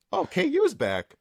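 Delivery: high excited hype. Retold or imitated. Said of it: "I'm like".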